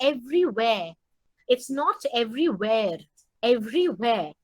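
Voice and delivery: "everywhere" with no r sound at the end; "everywhere" ending in an open e, r dropped; silent r. Shown as a demonstration. Teacher showing the silent r in "everywhere". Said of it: "where এর are silent খেয়াল করবে".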